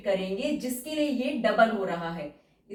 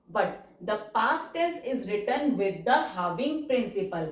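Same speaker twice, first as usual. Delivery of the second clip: very slow, word-by-word rule dictation; much slower than usual. Acted. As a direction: read the rule out slowly for students to write. (धीमी गति से नियम बोलकर लिखवाना)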